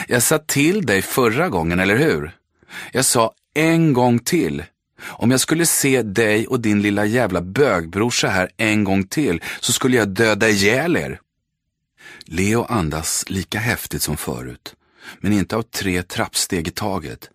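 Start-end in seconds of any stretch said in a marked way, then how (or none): 0.1-11.2 loud, higher menacing threat; bully shouting threats at the boys; bully threatening. Acted. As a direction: threaten him, loud and high. Bully threatens the two brothers.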